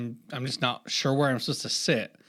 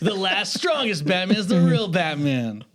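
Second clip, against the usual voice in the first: lightly hyped host impression; mock stunt-host announcement; Mister Beast. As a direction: declare the contest prize. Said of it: "like Mister Beast".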